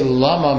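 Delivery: "lama" with the weight on MA; stress on last syllable. Shown as a demonstration. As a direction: lean on the final syllable of "lama".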